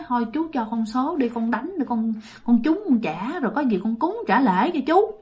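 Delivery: soft, humble coaxing; pleading. Acted. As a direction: beg the spirit quietly for a favour. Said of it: "năn nỉ, năn nỉ".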